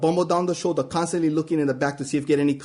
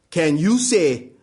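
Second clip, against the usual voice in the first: every syllable stressed, loud; stern shout; 4 dB louder, slower than usual. Retold or imitated. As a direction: drill the word like a command. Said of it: "looked me straight in the eye and shout".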